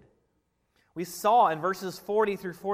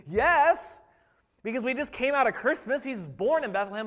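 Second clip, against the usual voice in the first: eager, louder call of yes; mock scream; 5 semitones higher, 3 dB louder than usual. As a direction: shout the answer like it's obvious. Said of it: "we're sitting here screaming".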